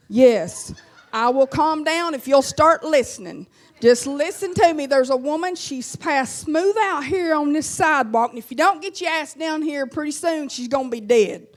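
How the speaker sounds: mock furious caller on the line; exasperated yell. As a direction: lose patience and yell down the phone. Yelling at slow 911 operator.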